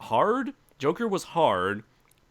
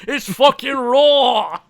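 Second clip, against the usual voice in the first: loud; 12 semitones higher, 11 dB louder, much slower than usual. Real, not acted. Hyping the raw David joke.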